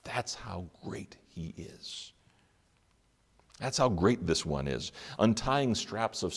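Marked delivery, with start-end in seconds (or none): 0.0-2.1 slow, awed breathy whisper. Acted. Preacher to congregation about Jesus, awed whisper. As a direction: breathe it like a secret in awe.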